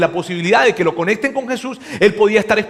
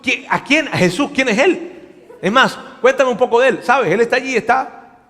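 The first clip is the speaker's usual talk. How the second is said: much higher and louder, frantic stream of no's; hammed-up panic, feigning ignorance; panicked denial; 7 semitones higher, 4 dB louder than usual. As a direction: play dumb in a hurry, half laughing. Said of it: "se agarra y dice".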